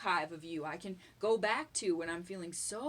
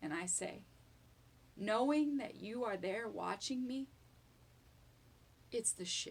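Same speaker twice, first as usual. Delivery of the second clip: voice quavering and trembling with gratitude; 4 dB quieter than usual. Expressing gratitude to the person watching, voice shaking. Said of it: "My voice is shaking".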